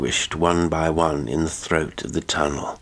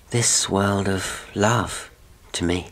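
soft and hesitant; 4 semitones higher than usual. A narrator's reading. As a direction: say it softly, pausing before the end. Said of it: "hesitated and spoke still more softly".

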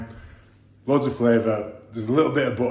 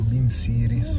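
dad's light Scouse attempt, a bit slower; Scouse accent; slower than usual. Dad joining in the Scouse clip impression in a Scouse accent. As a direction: give it a go in Scouse. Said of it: "Chicken in a Scouse accent".

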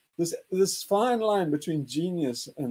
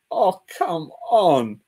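slow mock dismissal; 5 dB louder, much slower than usual. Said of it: "he was like".

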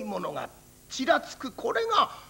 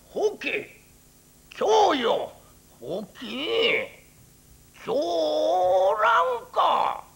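calling out; 7 semitones higher, 4 dB louder, slower than usual. Acted. Searching, calling out in snow.

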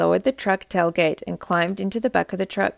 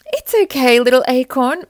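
reassuring; 4 semitones higher, 7 dB louder than usual. A narrator's reading. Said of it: "Mother Oak assured him".

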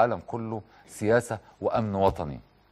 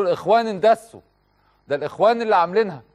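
mock screaming; 6 semitones higher than usual. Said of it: "تصرخوا".

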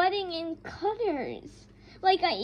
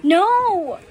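mad; 3 semitones higher, 4 dB louder than usual. Real, not acted. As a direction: vent about people cutting in line. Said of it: "Sorry if I sound so mad".

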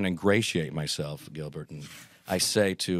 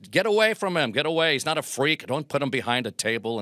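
sharp, much higher and louder, shooing people away; protective shout; 6 semitones higher, 3 dB louder than usual. Retold or imitated. Aaron shooing fans away from Groucho, raised sharp voice. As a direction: bark them back from the old man, higher and loud.

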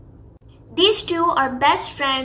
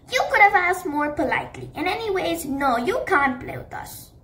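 snappy refusal; 3 semitones higher than usual. Acted. Sunny refuses Shadow.

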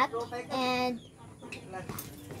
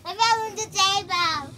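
startled cry; 5 semitones higher, 6 dB louder, much slower than usual. Pretend. Toy falls onto the table.

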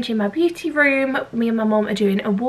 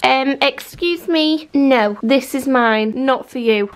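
mock scolding; 2 semitones higher, slower than usual. Telling off the dog over rollers.

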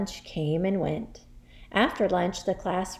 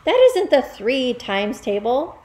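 put-on loud, higher boy's protest; cried out; 5 semitones higher, 7 dB louder than usual. Boy disputes the question, crying out. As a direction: keep protesting in a raised boy's voice. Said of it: "Wilfred cried".

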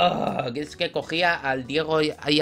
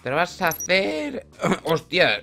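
voice crack; 4 dB louder than usual. Real, not acted. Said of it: "menudo gallo".

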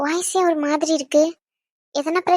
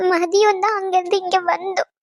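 crying. Acted. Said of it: "அழுவாத".

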